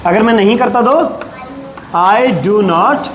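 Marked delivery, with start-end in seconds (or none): 1.9-3.1 slow, drawn-out teaching delivery; slow modelling. Shown as a demonstration. Teacher modelling a negative sentence for the class, slowly. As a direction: stretch each word out for learners.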